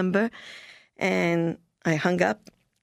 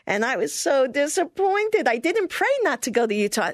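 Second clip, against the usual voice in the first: rueful disappointment; 6 semitones higher than usual. Real, not acted. Telling the interviewer her letdown, rueful. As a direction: let the letdown show.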